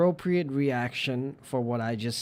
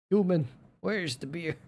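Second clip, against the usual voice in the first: bossy cat voice; 4 semitones higher than usual. Pretend. Voicing the cat demanding beer.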